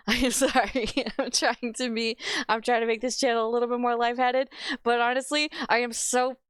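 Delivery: laughing through real annoyance; a laugh breaking into the rant; angry laughing apology. Real, not acted. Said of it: "I'm sorry that I'm already this angry".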